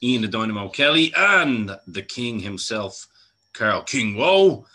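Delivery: slow, drawn-out announcer intro; podcast intro. Acted. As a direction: roll out the show intro like a host.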